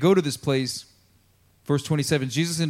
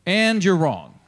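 raised, forceful verdict with AND hit hard; indignant rebuke; 5 semitones higher, 5 dB louder, slower than usual. Acted. Peter rebuking his teacher Jesus, indignant. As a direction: come down hard on him, high and loud.

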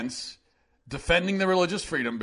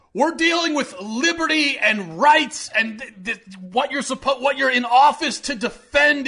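outraged rant; 9 semitones higher, 6 dB louder than usual. Real, not acted.

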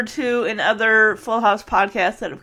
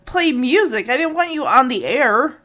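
higher, half-hammed exasperated scolding; mock angry rant; 5 semitones higher than usual. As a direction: play the fed-up uncle, slowed at first. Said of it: "But he is just angry".

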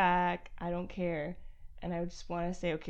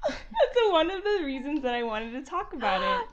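laughing excitedly; 9 semitones higher, 9 dB louder than usual. Real, not acted.

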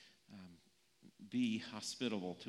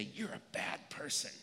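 mock name-calling; 2 semitones higher, 3 dB quieter than usual. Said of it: "call me names? Say".

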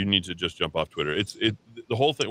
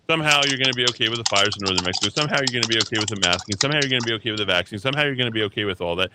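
fast angry rant; faster than usual. Real, not acted. Host ranting at listeners, fast and fired up. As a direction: rattle off each somehow, fast and heated.

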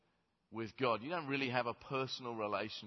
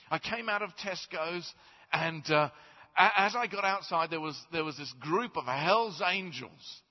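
higher, keen storytelling voice; eager man's story; 4 semitones higher, 5 dB louder than usual. Acted. The man tells Peter his good deed, higher and keen. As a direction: tell it like a proud eager man.

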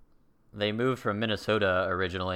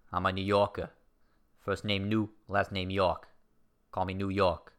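a light put-on New York accent, lazy r's; hammed-up New Yorker bragging, only lightly voiced. Vlogger playing a proud New Yorker, lightly voiced New York accent. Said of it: "This accent is starting to lose".

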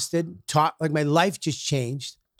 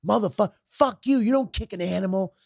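higher-pitched mock outrage; retold indignation; 5 semitones higher than usual. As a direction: tell him off, acting it out. Retold street quarrel over dog.

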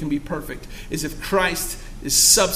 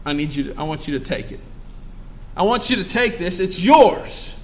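softer, gentle shopkeeper offering a gift; generous shopkeeper; 2 semitones lower, 5 dB quieter than usual. Retold or imitated. Shopkeeper softly urging a customer to take the cash. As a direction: coax them kindly to take the treasure. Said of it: "the guy behind the counter ... says".

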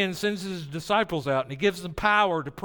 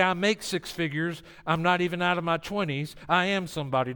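mock boast. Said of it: "Don't say".

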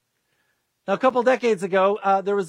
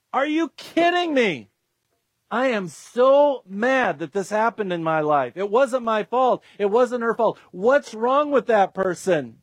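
acted anger; 2 semitones higher than usual. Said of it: "Second stage of grief is anger".

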